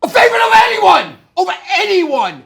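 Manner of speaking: high, hammed-up English accent building loud; bad English accent. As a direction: push a silly English accent towards a shout. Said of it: "This is my English accent".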